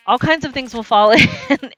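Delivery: loud, high, with a laugh breaking in; laughing warning. Real, not acted. Streamer warning viewers about the hole, laughing. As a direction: crack up near the end.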